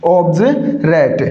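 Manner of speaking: ऑब्जरेट drawn out slowly in parts, "ob-je... rate"; slow corrected pronunciation. Shown as a demonstration. Teacher spelling out the correction, ऑब्जरेट slowly with "j". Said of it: "इसका उच्चारण जय होगा".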